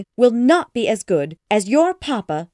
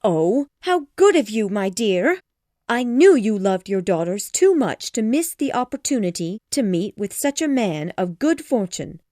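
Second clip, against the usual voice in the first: high, loud gushing delight; overjoyed mother; 4 semitones higher, 4 dB louder than usual. Acted. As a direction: gush over her husband. Mrs Bennet overjoyed.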